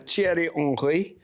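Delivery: French accent. Shown as a demonstration. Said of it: "It's that French accent".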